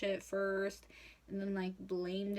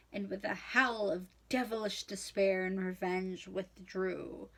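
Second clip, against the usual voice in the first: theatrical book reading; dramatic reading. Shown as a demonstration. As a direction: read it out with flair.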